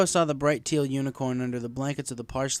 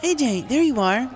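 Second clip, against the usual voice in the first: higher, louder friendly call-out; 13 semitones higher, 7 dB louder than usual. A narrator's reading. Twilight calls out to Applejack across town, friendly and loud. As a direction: hail a friend across the street. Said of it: "a friendly voice called out".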